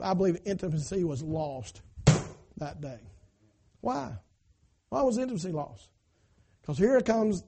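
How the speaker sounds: hushed preaching. Real, not acted.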